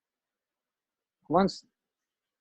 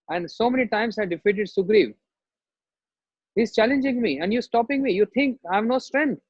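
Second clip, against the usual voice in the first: higher, indignant retort, faster at the end; angry rebuke; 4 semitones higher than usual. Retold or imitated. Bali angrily rebuking his wife for stopping him. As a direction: bristle with wounded pride.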